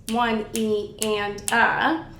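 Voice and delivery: measured, separate syllables on each subdivision; sixteenth-note count. Shown as a demonstration. Teacher counting out all the sixteenth notes, evenly spaced. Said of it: "count all of the sixteenth notes".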